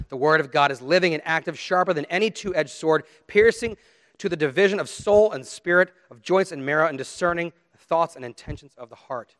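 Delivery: forceful recited verse; scripture declamation. Acted. Preacher telling why to cling to sermons, declaiming scripture. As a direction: proclaim it phrase by phrase.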